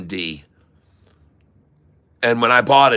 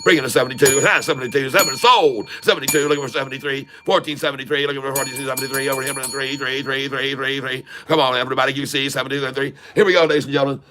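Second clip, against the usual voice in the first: rapid auctioneer chant calling prices; faster than usual. Acted. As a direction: rattle off bids like an auctioneer. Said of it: "the auction voice".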